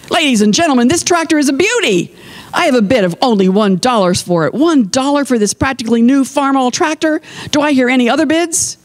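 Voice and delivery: high-pitched sales pitch to a crowd; auctioneer calling. A narrator's reading. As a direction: call for bids like an auctioneer.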